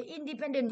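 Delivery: "independent" stressed on PEN. Shown as a demonstration. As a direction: lean on the third syllable of "independent". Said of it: "phải dẫn dơ pen".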